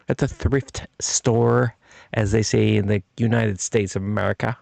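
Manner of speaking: put-on rough stab at an American accent; lightly put-on US accent, words stretched at first; attempted American accent. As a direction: have a loose go at sounding American. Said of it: "I don't know what accent I'm pulling".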